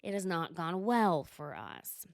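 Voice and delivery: lightly imitated, low and measured; a hint of a low, deliberate character voice; Meredith. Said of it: "And so Meredith says".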